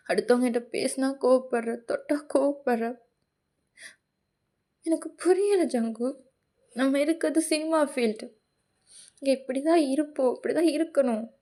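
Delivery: lightly acted wounded boyfriend; hurt Tae remonstrating. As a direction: plead your case, hurt and let down.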